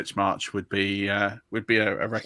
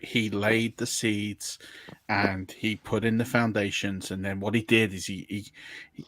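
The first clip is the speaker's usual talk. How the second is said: slow, drawn-out musing; lightly imitated halting, ponderous storytelling; Jeff Goldblum; slower than usual. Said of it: "You're getting very Jeff Goldblum".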